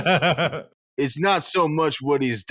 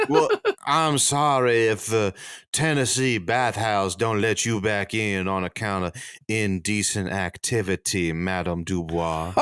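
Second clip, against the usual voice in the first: put-on Southern accent; 4 semitones lower than usual. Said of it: "Southern gentleman accent".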